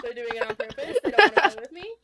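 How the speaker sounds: high, loud mock gamer whine; whining gamer. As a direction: protest like a comically wronged gamer. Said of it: "that's how people always talk".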